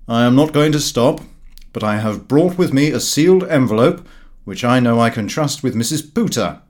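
loud, blustering know-all; a self-satisfied friend laying down a challenge; Gowing's brash voice. Acted. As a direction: announce it like a cocky sceptic.

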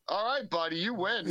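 imitated easygoing surrender; mock backing down. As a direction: back off from a fight, hamming it up. Acted retelling of kid backing down.

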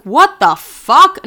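very slow, high, loud mock outrage; exaggerated retold incredulity; baffled disbelief. Retold baffled reaction to quiet friend.

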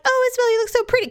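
put-on high, fast baby-talk coo; cooing at a cat. Cooing sweetly at the cat she's about to pet. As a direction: sweet-talk the kitty in a squeaky voice.

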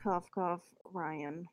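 mock-cough aside. Player hinting at a fellow player, hushed aside. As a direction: slip the name out under a fake cough.

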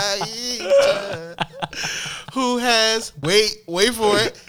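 loud, high, building dramatic reveal; excited reveal. Acted. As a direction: hype up the punchline. Reading mad-lib story reveal, laughing.

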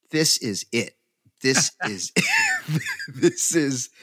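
loud, laughing shout of disbelief; ecstatic shout. Retold or imitated. Fan pulled onstage with a band, ecstatic laughing shout. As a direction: let it burst out through laughter. Jumping on stage with the band.

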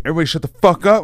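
mock-stern call to shut up while fighting laughter; trying to be serious. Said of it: "I'm trying to be so serious".

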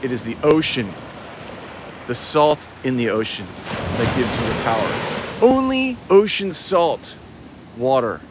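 lofty sermon with sudden soaring emphasis; grandiose preaching. Acted. Host preaching the ocean salt's power to viewers, grandiose. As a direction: proclaim it in weighty, separated phrases.

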